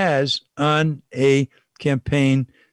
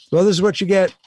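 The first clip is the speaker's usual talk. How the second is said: exasperated; 7 semitones higher, 3 dB louder than usual. Real, not acted. Exasperated exclamation.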